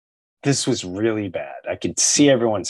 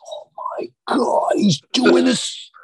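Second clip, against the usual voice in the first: high, whispered crying laugh; stunned laughing disbelief; 12 semitones higher than usual. Retold or imitated. Watching Norm at the press conference, laughing in high disbelief. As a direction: gasp it out through laughter. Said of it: "I'm going".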